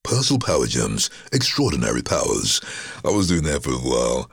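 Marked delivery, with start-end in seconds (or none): 0.1-2.6 measured product tagline read; advert voice-over. Shown as a demonstration. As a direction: deliver it as a TV ad slogan. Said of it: "Persil Power Gems, a lot of people".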